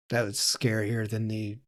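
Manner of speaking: ordinary talk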